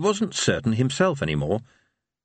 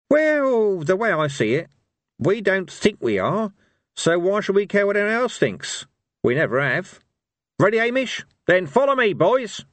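put-on old barbarian voice; 10 semitones higher than usual. Cohen's rousing speech.

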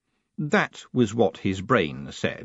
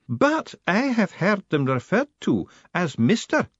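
a formidable lady laying down the law; imperious high-pitched battleaxe; demanding old woman; 10 semitones higher than usual. Acted. Matron's voice held.

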